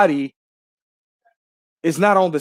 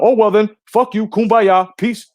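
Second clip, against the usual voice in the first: louder, higher sneering mock; mocking Glenn; 5 semitones higher, 4 dB louder than usual. Imitating the show host cursing him off, mock sneer. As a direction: throw it back as a snide mock brush-off. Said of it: "He comes out".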